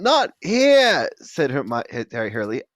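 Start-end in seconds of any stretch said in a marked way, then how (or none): 0.0-1.1 put-on high girl voice. Hermione voiced.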